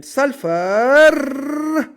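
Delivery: long swelling, high, loud "sulfur"; drawn-out exclamation. Shown as a demonstration. Teacher announcing the next atom to students, drawn-out exclamation. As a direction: stretch the word out, climbing and loud.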